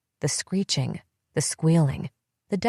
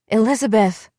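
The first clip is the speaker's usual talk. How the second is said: calling out louder, rising to a scream; screaming a name; 5 semitones higher, 6 dB louder than usual. A narrator's reading. Narrator screaming for her sister after the crash. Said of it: "screaming, searching wildly".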